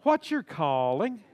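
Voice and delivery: slow, gentle, sweet question; sweetly. Shown as a demonstration. Pastor has the congregation ask their neighbor, sweetly. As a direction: ask it sweetly, like you truly care. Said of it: "No, say it real sweetly".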